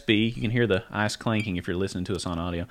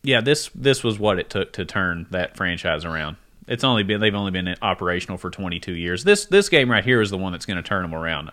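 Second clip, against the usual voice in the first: sarcastic; 4 semitones lower than usual. Real, not acted. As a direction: lay the sarcasm on thick. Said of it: "a lot of sarcasm".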